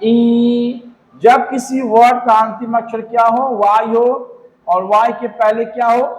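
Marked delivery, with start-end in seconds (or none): 0.0-0.8 ई drawn out and level. Shown as a demonstration. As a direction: answer with a long ई. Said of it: "क्या होगा?".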